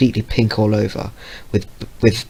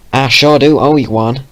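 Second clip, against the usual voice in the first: put-on country accent; 4 semitones higher, 6 dB louder than usual. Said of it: "She had a strong country accent".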